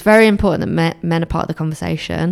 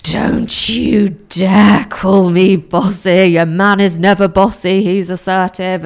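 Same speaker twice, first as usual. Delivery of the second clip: mock indignant telling-off; 2 semitones higher, 3 dB louder than usual. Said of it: "I was like".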